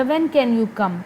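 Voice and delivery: "when" hit, "can you come" falls; plain falling question. Shown as a demonstration. Teacher showing a normal falling question, "when" stressed. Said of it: "ये एक normal question है जिसमें मेरी आवाज़ नीचे जाए".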